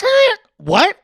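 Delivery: family in the car, shocked yelp. Retold or imitated. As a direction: gasp out in shock. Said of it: "were like".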